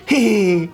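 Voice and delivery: little mock toddler giggle; put-on "hee hee" giggle; imitated child's giggle. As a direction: switch to a kid's tittering laugh. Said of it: "then he'll start, like, he goes".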